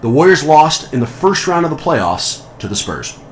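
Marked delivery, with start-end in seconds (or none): 0.0-1.7 game show host voice. Pretend. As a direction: stretch it like a quiz host. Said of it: "my canned game show host voice".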